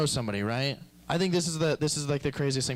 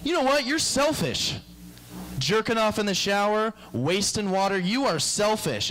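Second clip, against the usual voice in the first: high, indignant lecturing voice; mock scolding; 6 semitones higher than usual. Angry neighbour scolding him over wasted water, indignant.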